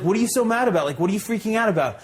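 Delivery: high, incredulous questioning; acted feigned innocence. Thief asking the angry owner why he is mad, high-pitched innocence.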